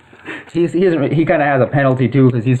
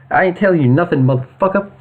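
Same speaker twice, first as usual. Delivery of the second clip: defiant thug; 5 semitones higher than usual. Acted. Thug defies interrogator.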